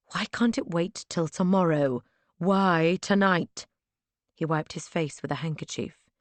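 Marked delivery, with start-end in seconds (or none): 0.1-3.7 exasperated. Acted. Pleading at him.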